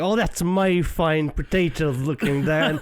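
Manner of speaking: put-on Irish accent. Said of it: "and he's Irish".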